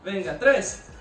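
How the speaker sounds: loud, high counting of reps; barking gym coach. Real, not acted. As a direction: shout each count to push the class.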